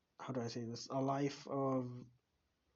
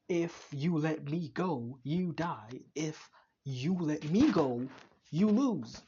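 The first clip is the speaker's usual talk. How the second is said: mock villain threat; 3 semitones higher, 7 dB louder, slower than usual. Reviewer voicing the weapons' threat, building to a shout. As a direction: snap the threat like a cocky weapon.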